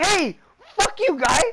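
put-on heavy, thick Chinese accent, pitched very high. Retelling what a woman shouted at him, in a thick Chinese accent. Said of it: "She even said it in such a thick Chinese accent".

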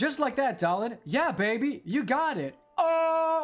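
very high voice, sounds stretched out long. Imagining a YouTube poop edit of DJ Grooves' speech: YouTube poop DJ Grooves voice. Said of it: "clips of D J Grooves' speech".

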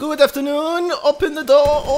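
put-on Chinese-sounding accent, very high-pitched. Invading the zombie house, the speaker calls out a greeting sounding like a Chinese guy. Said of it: "why do I sound like a Chinese guy?".

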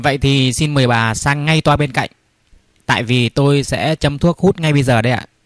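ordinary talk, nothing marked

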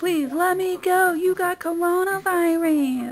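high-pitched, loud, drawn-out screaming. Recounting a man screaming while being handcuffed for jail, retelling a scream. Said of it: "he screams out".

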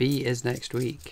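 slow, soft, drawn-out delivery. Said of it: "don't say it slowly".

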